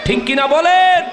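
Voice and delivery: high, rising call for agreement; rousing crowd call. Real, not acted. Preacher asking the crowd to agree, high rousing call. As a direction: throw the question up high to the crowd.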